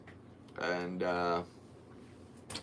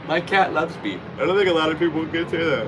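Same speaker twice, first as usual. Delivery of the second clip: cutesy voice; 6 semitones higher, 5 dB louder than usual. Pretend. Cooing about his cat.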